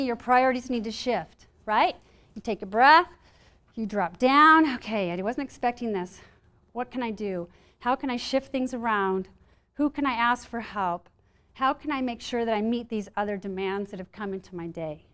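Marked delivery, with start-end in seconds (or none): 4.7-15.1 calm self-talk. Shown as a demonstration. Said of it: "So it's much more conserving of your energy".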